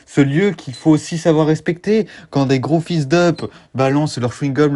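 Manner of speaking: low, earnest planet tribute; solemn documentary voice. Acted. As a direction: speak reverently about the planet.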